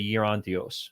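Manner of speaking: "Gerontios" with an initial Y sound; Greek pronunciation. Shown as a demonstration. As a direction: say "Gerontios" as Yerontios, no hard G. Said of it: "In America, we'd pronounce the G".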